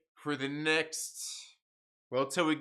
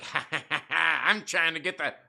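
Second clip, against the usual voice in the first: mock laugh; 3 dB louder than usual. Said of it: "maybe he's like".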